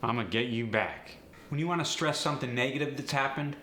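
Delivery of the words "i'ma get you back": relaxed AAVE "I'ma"; AAVE contraction. Shown as a demonstration. Teacher demoing AAVE contraction. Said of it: "It's much easier to say".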